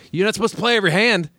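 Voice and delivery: high-pitched mock scolding; retold exasperation. Poker player mad at a novice at the table, high mock exasperation. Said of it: "getting so mad at me".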